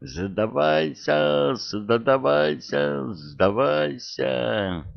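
high, slow, drawn-out dragon squeal; a small dragon squealing with all its might; squealing little dragon. A narrator's reading. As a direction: stretch each word out in a tiny dragon's high squeal. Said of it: "что есть мочи, завизжал".

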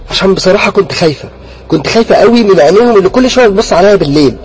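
loud, high, frightened complaint; scared, accusing. Acted. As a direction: blame him for moving the teddies. Frightened sister blames brother about teddies.

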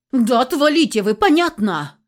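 loud, furious outburst; girl explodes at the overbearing men; exploding. Acted. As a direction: finally blow up at them all. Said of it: "взорвалась я окончательно".

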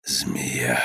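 very low, soft curse; quietly. A narrator's reading. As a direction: say it low and softly, almost to yourself. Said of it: "сказал он тихо". (тихо и низко)

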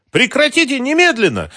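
very high, loud shout. A narrator's reading. Mara to the intruders, a high loud shout. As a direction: scream at them to stop. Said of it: "крикнула она".

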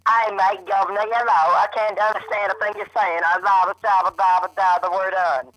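high, loud mock British Australian accent; bad British Australian accent. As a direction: ham up a garbled British Australian singer. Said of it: "impersonate for me".

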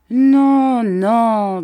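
high, loud, drawn-out soothing protest; consoling. A narrator's reading. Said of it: "d'un ton consolant".

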